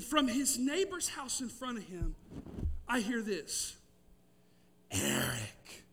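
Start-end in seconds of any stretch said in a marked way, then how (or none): 4.9-5.8 deep, drawn-out spooky call of a name; eerie crow call. Retold or imitated. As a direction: moan the name like a ghostly voice in the dark. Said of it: "calling out ... this terrifying voice".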